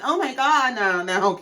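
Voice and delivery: mock concerned cooing; put-on, exaggerated empathy; fake sympathy. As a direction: imitate friends pretending to sympathize. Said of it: "pretending to be so sympathetic and empathetic".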